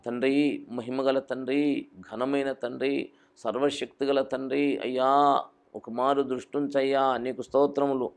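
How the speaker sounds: ironic put-on reverent prayer; mock formal prayer. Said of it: "అంటాడా?". (ఎగతాళిగా భక్తి ప్రార్థన)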